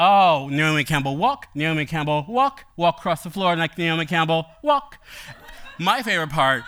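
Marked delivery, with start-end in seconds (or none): 0.0-5.0 light sing-song imitation of the song's commands; imitating a singer's lyric. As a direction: chant the lyric like giving catwalk orders. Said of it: "she wants you to".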